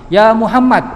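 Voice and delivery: imitated Bedouin shout; loud calling out. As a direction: call the name out like someone far off. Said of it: "Sudah ngomongnya kenceng".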